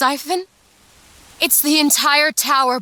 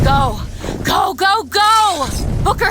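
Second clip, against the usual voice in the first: urging shout. Acted. Urging creature onward.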